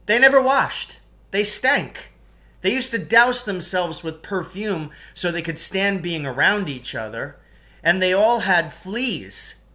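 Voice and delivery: loud, high, relishing every gross detail; gleeful rant. Acted. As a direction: savour the disgust. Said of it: "I was really enjoying myself".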